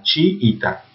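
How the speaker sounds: Chiita split as chi-i-ta; separated vowels. Shown as a demonstration. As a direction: say Chiita with the two i sounds in separate syllables. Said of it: "se separan". (Chiita separando las dos íes: chi-i-ta)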